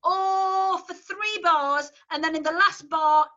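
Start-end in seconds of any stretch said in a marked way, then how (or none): 0.0-0.8 "oh" said flat and open, no diphthong; flat Yorkshire O. Shown as a demonstration. Choir teacher demonstrating the vowel with a flat Yorkshire O. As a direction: sing "oh" as a flat northern O. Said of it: "it's that".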